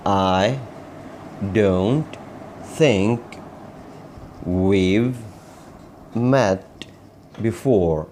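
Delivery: very slow, isolated words with long pauses; word-by-word model. Shown as a demonstration. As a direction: dictate each word separately for learners. Teacher models sentence word by word.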